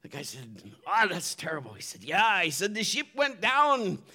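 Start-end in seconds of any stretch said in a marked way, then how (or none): 0.9-1.7 pirate voice. Retold or imitated. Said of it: "my pirate voice". 2.0-2.4 pirate voice. Retold or imitated. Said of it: "my pirate voice". 2.7-4.0 a hammed-up pirate, higher and slow. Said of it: "my pirate voice".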